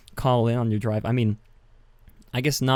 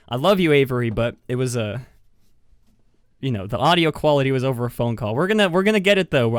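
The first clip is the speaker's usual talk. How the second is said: louder and quicker, rushing to reassure; eager apology; 6 dB louder, faster than usual. Real, not acted. Host apologizing to listener Avery, louder and rushing. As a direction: gush your apology to make it right.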